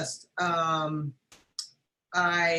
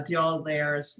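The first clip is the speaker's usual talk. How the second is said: slow attempt at French pronunciation; French accent. Real, not acted. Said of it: "my French accent is terrible".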